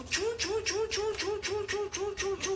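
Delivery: very high rapid squeaks; mouse squeaks. A narrator's reading. Mouse hurries to the trapped lion, high squeaks. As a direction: squeak while hurrying along.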